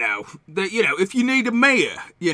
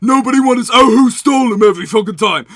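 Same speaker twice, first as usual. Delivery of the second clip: exasperated rant; 5 semitones higher, 5 dB louder than usual. Acted. Merchant rants about his business.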